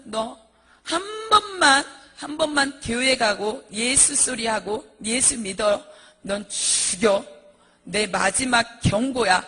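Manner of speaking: slow, emphatic acted threat; threatening husband. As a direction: draw out a final warning, hard and deliberate. Husband's final threat to his wife. (느리고 힘준 남편의 협박 흉내)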